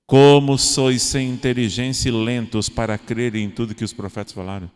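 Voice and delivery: loud scolding quote, then fading; harsh rebuke. Pretend. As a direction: scold them sharply. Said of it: "já ia te falar diferente". (bronca dura e alta)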